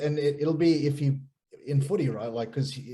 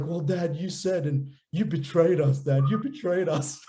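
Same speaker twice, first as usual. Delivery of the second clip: imitated child's hurt accusation, slightly higher; mildly dramatised sense of betrayal; upset son; 4 semitones higher than usual. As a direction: retell a boy's wounded reproach to Dad. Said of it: "He was upset".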